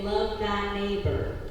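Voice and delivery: slow Southern drawl; southern accent. Shown as a demonstration. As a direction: say it like a Texas churchgoer. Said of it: "in your most southern accent".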